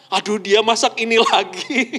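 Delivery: put-on grumble breaking into a laugh; mock annoyance. Spouse fed up with the same cooking, mock annoyance. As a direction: groan about the cooking, half laughing. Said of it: "Udah jengkel".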